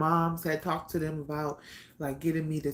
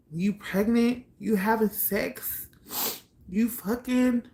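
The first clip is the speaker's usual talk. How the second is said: raised, demanding questions from an angry brother; 5 semitones higher, slower than usual. Retold or imitated. Angry older brother confronting his pregnant sister, raised voice. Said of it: "he just was so pissed off".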